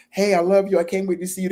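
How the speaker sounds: sweet and high, meant with love; the loving way you typed it; loving text. Retold or imitated. Typing a loving text to a partner, sweet and fond. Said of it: "Why you gotta say with an attitude".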